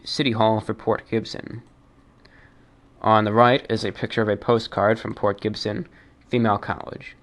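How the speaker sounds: steady read-aloud of an article; announcer-like read of a page. Acted. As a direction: read it out like an encyclopedia entry. Reads Wikipedia article aloud.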